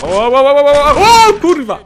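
rapid rising cries into a loud swear; high, loud burst of panic; alarmed yelling. Real, not acted. Sudden alarm in the game. (krzyk nagłego przerażenia)

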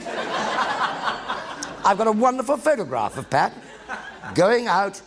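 can barely get it out for laughing; real laughter while remembering Troughton. Real, not acted. Laughing recalling the tea cozy.

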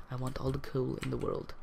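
playful mock-Russian accent; put-on Russian accent, hammed up. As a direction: play a coal-greedy Russian. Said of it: "go into like a J-, uh, Russian accent".

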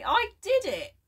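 high, loud cry of victory; triumphant shout. A narrator's reading. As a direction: crow about the success. Old man triumphant after picking lock.

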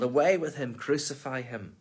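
a crowd yell fading into the second phrase. Acted. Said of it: "they yelled".

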